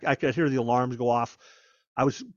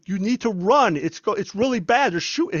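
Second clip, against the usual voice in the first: retold yell; 5 semitones higher, 4 dB louder than usual. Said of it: "they're screaming, going".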